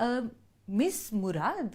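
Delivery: hesitant, puzzled question; pause, then ask unsure of the name; mock confused air hostess. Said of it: "full confusion".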